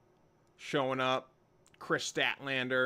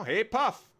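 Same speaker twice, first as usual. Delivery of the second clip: high, louder pet greeting; cooing hello to a pet, pitched up; 8 semitones higher, 5 dB louder than usual. Real, not acted. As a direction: call the pet in a bright high voice.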